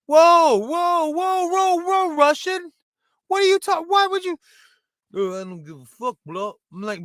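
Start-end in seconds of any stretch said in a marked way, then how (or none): 0.1-4.4 high-pitched, alarmed interruption; shocked protest. Acted. Poker player cuts off the Russian's offensive answer, high shocked protest. 5.1-6.5 put-on unbothered Russian accent. Russian guard brushes off the shocked poker player, dismissive Russian accent. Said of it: "the only way I can do a Russian accent".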